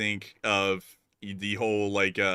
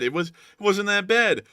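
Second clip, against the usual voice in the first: amused concession; 10 semitones higher, 6 dB louder, slower than usual. Real, not acted. Amused rating of imitation.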